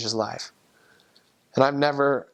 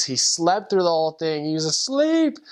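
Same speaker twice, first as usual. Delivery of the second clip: like catching someone dozing off in church; surprised realization; 4 semitones higher than usual. Retold or imitated. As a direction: voice jumping much higher in amused disbelief. Realizes investigator fell asleep.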